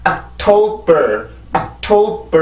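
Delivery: 옥토버 with the final 버 lifted again; rise on last syllable. Shown as a demonstration. Teacher models the correct rise on the last beat. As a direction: bring 옥토버 back up at the end. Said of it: "한 번 더 올라와줘야 돼".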